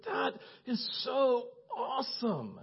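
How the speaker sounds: slow, high, softened marvelling; hushed, drawn-out appreciation; moved admiration. Retold or imitated. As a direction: linger softly on each word in awe. Retelling his reaction to testimony.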